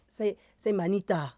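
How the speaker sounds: Manita in a slow West African lilt; West African accent. Shown as a demonstration. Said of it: "like this".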